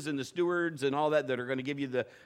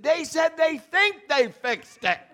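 laughing; 9 semitones higher, 7 dB louder, slower than usual. Real, not acted. Laughing retelling mechanic's claim.

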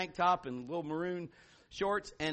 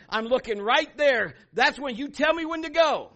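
focused runner's vow; 4 semitones higher, 9 dB louder than usual. Pretend. Runner telling herself and God to stay in her lane. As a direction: declare it like you're locked on your lane. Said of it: "You gotta focus on".

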